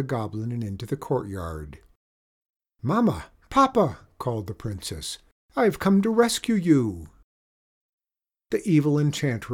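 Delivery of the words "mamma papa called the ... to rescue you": high loud calling to parents. Acted. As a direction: call across the courtyard. Princess calls out.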